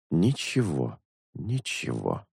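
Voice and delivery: soft, low, sinking murmur; low muttering. A narrator's reading. Crane taking a last look round, quiet low mutter. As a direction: say it to yourself, dropping away. Searcher mutters to himself, finding nothing.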